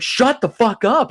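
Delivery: high, drawn-out mock outburst; mock exasperation. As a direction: imitate someone fed up with nagging. Acted snap at a nagging passenger.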